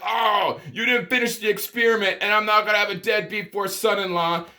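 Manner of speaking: imitating a father yelling at the would-be son-in-law; father shouting down a deadbeat suitor, hammed up; angry father. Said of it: "Father's all like".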